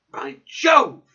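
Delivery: loud, high burst of eagerness; sudden loud exclamation of delight; excited cry. A narrator's reading. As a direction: shout it out, struck by the idea. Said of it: "I cried".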